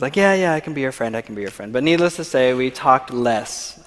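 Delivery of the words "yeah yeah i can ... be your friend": disappointed agreement. Retold or imitated. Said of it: "I was very disappointed".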